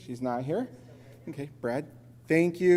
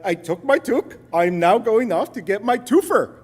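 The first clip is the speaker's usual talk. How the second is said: proud; 7 semitones higher, 8 dB louder than usual. Retold or imitated. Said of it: "I, like".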